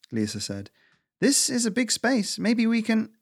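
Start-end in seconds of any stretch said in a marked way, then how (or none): 1.2-3.1 high-pitched squirrel voice; tense, high voice working out a plan; squirrel, urgent planning. Acted. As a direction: think aloud urgently, pitch raised.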